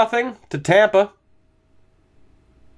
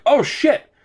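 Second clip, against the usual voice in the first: put-on Boyer; 8 semitones higher than usual. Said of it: "then Boyer's like".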